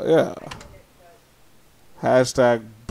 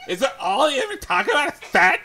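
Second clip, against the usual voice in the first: higher-pitched prudish complaint; mock exasperation; 8 semitones higher than usual. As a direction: whine in disbelief at the topic. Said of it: "I'm like".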